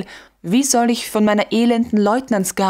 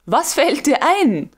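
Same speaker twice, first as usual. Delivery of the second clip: exclaiming; 6 semitones higher than usual. Acted. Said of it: "rief Koltow".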